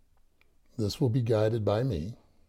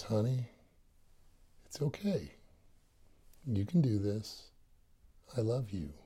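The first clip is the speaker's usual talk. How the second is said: gentle inner voice; 4 dB quieter than usual. Retold or imitated. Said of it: "that voice says".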